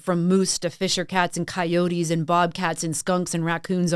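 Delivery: ordinary delivery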